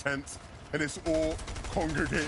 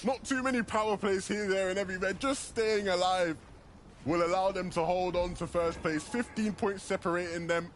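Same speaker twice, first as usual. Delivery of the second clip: urgent, higher hyped commentary; esports caster; 5 semitones higher than usual. Real, not acted. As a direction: push the tension, voice climbing. Urgent casting, pitch up.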